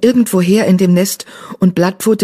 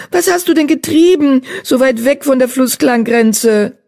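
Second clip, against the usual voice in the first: high, excited asking; astonished question; 8 semitones higher, 3 dB louder than usual. Acted. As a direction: ask in eager amazement. Astonished question to found friend.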